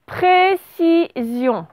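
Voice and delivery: précision said slowly and clearly, falling at the end; slow dictation. Shown as a demonstration. Teacher dictating a word to pupils, slow and clear. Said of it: "Vous écrivez".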